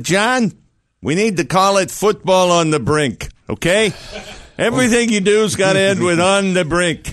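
publisher. Acted. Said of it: "You think his publisher said".

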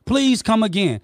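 hot denial, voice up; flatly denying the host's claim, loud and heated. Real, not acted. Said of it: "you don't have to be emotional".

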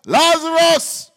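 high, drawn-out commanding shout; loud voice. Acted. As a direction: call someone out of the tomb. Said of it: "Jesus spoke with a loud voice".

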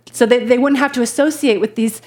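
a quick put-on British accent, lightly done; posh-ish British lilt on common folk, tongue in cheek; mock British accent in passing. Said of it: "that was a British accent".

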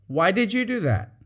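"did" stressed, curious; open, gentle why; sincere question. Shown as a demonstration. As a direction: ask sincerely. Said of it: "the other one might be".

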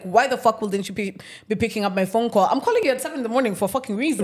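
fast, indignant retold rant; livid. Tenant ranting at manager not picking up, livid. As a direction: rattle off an irritated complaint. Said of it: "Makes me even more livid".

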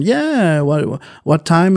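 high, drawn-out receptionist reply; real person on phone. Retold or imitated. Salon worker answering a booking call, imitated receptionist. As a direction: imitate a receptionist, slowing on the question. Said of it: "you have the real person".

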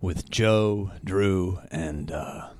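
hoarse from pollen and smoke; rough, raspy voice; gravelly voice. Real, not acted. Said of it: "that gravel voice".

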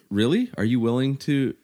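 mild imitated yell; retold yell. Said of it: "I just yelled at her".

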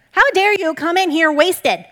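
loud, high, slow scolding; hammed-up outraged rebuke, drawn out; acted indignant accusation. Eli accusing the crying Hannah of being drunk, acted indignant. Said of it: "Jumps straight to judgment".

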